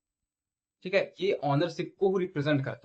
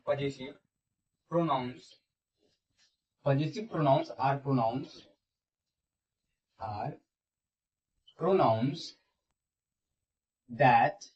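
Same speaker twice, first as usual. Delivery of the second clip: slow, word-by-word classroom dictation; much slower than usual. Shown as a demonstration. Teacher dictating a definition for students to write, slow dictation. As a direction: dictate in short chunks with long pauses. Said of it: "लिखेंगे".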